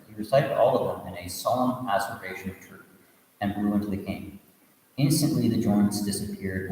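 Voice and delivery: steady storytelling read, voicing the characters lightly; story narration. A narrator's reading. Teacher reading a Buddhist tale to students, storytelling voice. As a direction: read the tale aloud to the class.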